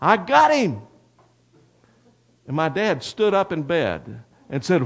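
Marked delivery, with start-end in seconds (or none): 0.0-0.8 yelled, loud and high. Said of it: "And then he yelled".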